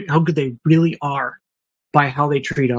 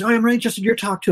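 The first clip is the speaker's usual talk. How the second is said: quick, higher, lightly voiced humble reply; humble Larry; 7 semitones higher, much faster than usual. To a fan at a conference, a quick, higher humble reply. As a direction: brush the praise aside politely, quickly. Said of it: "He goes".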